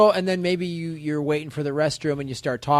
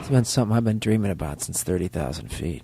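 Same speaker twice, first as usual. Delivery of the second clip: low smooth flirt; 10 semitones lower than usual. Acted. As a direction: drop low and lean in. Pilot seducing.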